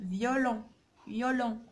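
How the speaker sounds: "فيولون" low, with a clear "yo" glide; pronunciation demo. Shown as a demonstration. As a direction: model "فيولون" as "vyo-lon", word by word. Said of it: "يعني ننطقوها إيون".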